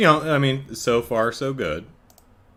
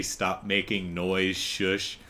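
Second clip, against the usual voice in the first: cold killer hush; 6 semitones lower, 7 dB quieter, slower than usual. Retold or imitated. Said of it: "psychopathic, completely lacking in empathy".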